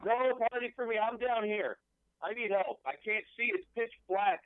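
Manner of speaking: high, pleading trapped caller; desperate pleading. Acted. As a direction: beg for help from the dark.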